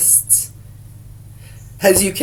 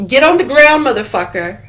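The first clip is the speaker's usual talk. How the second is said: police shout; 5 semitones higher than usual. Retold or imitated. Officer yelling at a suspect to get down. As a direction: yell it like a cop making an arrest.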